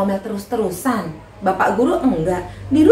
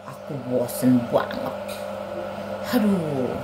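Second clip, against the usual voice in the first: very low, monotone character voice; glum puppet boy Anto; 8 semitones lower, 7 dB quieter than usual. Acted. Anto tells Ani about being scolded, glumly. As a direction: drone the complaints out low.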